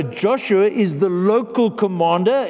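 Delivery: local commander, with the word local weighted; stress on local. Shown as a demonstration. Preacher to congregation, stressing local in local commander. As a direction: lean on local in Joshua is the local commander. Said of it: "important emphasis on the word local commander".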